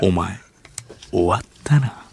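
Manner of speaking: a hint of put-on Tokyo accent; forced standard Japanese. Actor rehearsing an accusation, careful Tokyo accent. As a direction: run lines avoiding Kansai intonation. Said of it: "関西弁で喋らないようブツブツとセリフを復習する".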